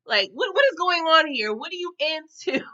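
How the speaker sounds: high, incredulous questioning that stretches out at the end; exasperated disbelief. Retold or imitated. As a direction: imitate a bewildered friend demanding answers. Fed-up Candace demands answers.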